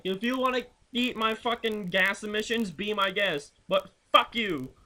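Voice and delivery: retold jab at drivers who ride your ass; mock angry retort. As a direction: sneer at the tailgater. Retold rant at tailgater.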